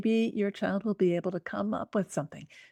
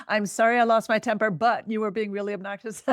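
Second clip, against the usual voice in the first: quick, defensive apology that turns into blame; a mildly mock-defensive parent apology; apology ruined by but; 2 semitones higher, faster than usual. Shown as a demonstration. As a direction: rush the sorry, then dig in on the but. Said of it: "You just erased the apology".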